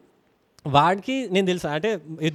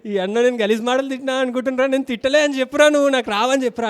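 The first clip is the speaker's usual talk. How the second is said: tearful plea; 5 semitones higher than usual. Retold or imitated. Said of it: "చిన్నప్పుడు అట్లనే ఏడుస్తాం కదా".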